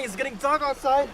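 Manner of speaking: sci-fi trailer narrator. Pretend. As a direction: announce it like a blockbuster trailer. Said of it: "I had to exaggerate the way I talked".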